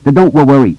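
put-on high-pitched stammering boy; stutter. A narrator's reading. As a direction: catch on the first sounds of words. Stuttering boy's dialogue in narration.

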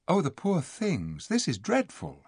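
put-on high, girlish dismay; distressed pity. A narrator's reading. Lucy pitying the dwarfs, distressed. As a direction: lament for them tenderly.

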